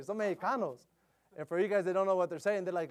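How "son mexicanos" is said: retold teen. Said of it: "That's what they say".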